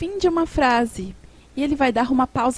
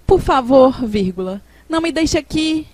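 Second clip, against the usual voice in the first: a louder "Por favor", then "não me deixe aqui" begged; pleading; 4 dB louder than usual. Shown as a demonstration. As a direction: beg them not to leave you. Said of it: "Uma súplica".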